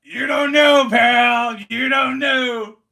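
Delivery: fan shout. Real, not acted. Fan ranting at rivals.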